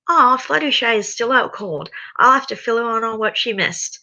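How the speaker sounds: high, sweetly amused villain; amused villain Twilight. Acted. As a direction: toy with them, amused. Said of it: "found something that amused her".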